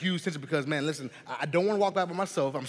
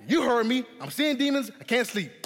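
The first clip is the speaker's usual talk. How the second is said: put-on insistent scared kid; 8 semitones higher, 3 dB louder than usual.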